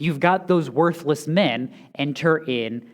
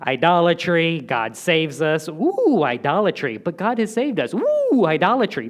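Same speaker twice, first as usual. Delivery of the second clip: mock people cycling; 2 semitones higher, 3 dB louder than usual. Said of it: "They're just like".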